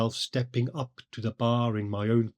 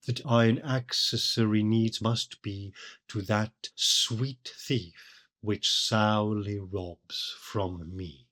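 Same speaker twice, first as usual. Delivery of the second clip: poem reading; slower than usual. Acted. Reads the sonnet lines slowly.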